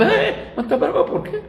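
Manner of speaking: high, laughing question; amused doctor. Retold or imitated. Doctor laughing to the father about his angry daughter, amused and high.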